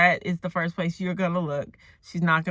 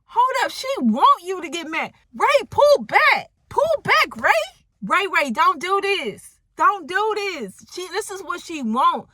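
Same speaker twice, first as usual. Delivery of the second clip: very high-pitched urgent begging; frantic pleading; 11 semitones higher, 3 dB louder than usual. Acted. Acts out pleading with Ray.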